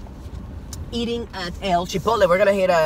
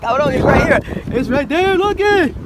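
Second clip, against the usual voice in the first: excited pointing; 8 semitones higher, 4 dB louder than usual. Retold or imitated. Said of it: "I'm like".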